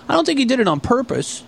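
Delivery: high, mock-innocent delivery; Ray voice. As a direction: imitate a naive kid excusing someone. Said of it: "He goes".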